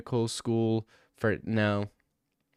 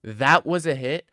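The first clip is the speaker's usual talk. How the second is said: slow, drawn-out sarcastic read; condescending sarcasm; 3 semitones higher than usual. Retold or imitated. Streamer re-reading a chat jab, sarcastic and condescending. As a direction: stretch it out, mock-impressed. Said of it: "That is the most sarcastic, condescending thing".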